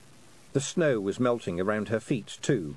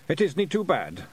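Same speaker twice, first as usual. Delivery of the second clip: higher, lightly raised Feegle call; called up from below; 5 semitones higher than usual. Acted. Rob Anybody calling up to Tiffany from the ground, higher call. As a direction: call up to someone above you. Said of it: "Rob Anybody shouted up from below".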